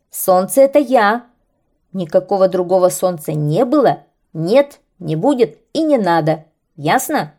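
loud, insistent anger; angry kite. Acted. Angry kite scolds the birds, loud and bossy. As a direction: lay down the law furiously. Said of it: "разозлился змей".

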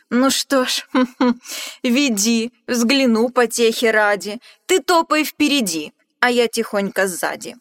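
loud chuckling beast voice; amused monster. Acted. Gruffalo laughing loudly as he agrees to follow the mouse. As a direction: humor the little braggart.

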